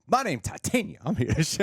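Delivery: high-pitched mock villain introduction; hammed-up villain entrance. Co-host imitating Titania crashing the first episode, hammed-up. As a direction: announce yourself high and showy, imitating.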